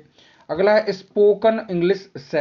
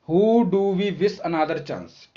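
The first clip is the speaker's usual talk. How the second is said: slow reading aloud; much slower than usual. Shown as a demonstration. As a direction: question read very slowly. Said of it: "तो कहा गया है who". (धीमे पढ़ा गया प्रश्न)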